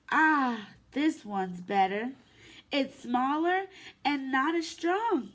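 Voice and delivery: gentle, lively storybook read-aloud; reading to children. Acted. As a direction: read it to little ones at story time. Reads picture book to kids.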